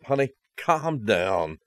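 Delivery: slow, placating husband to an upset wife; slow, mock-soothing reassurance. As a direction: draw it out soothingly, as if to calm her. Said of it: "I say that in a soothing voice".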